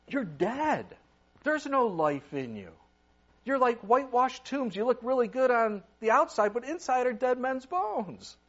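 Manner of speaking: stern rebuke. Acted. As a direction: thunder it at the hypocrites. Jesus rebuking the hypocrites.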